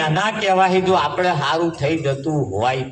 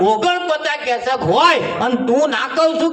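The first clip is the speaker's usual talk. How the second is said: angry teacher; 5 semitones higher than usual. Retold or imitated. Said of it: "કે છે".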